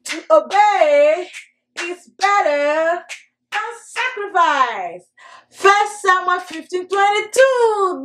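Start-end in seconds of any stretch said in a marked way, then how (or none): 0.1-5.0 slow phrase-by-phrase recitation with pauses; slow group recitation. Shown as a demonstration. Teacher leading children through the verse in slow chunks. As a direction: pause after each chunk, slowly. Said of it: "Let's do it".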